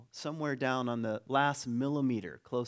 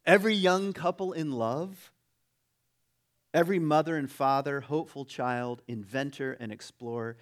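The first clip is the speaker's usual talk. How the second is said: oratorical reading; 4 dB louder than usual. Acted. Preacher reads a passage to the congregation, emphatic oratory. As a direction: list launched loud, then settling.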